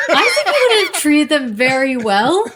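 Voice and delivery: talking through laughter; amused reply about Ewoks; laughing. Real, not acted. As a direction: chuckle while answering.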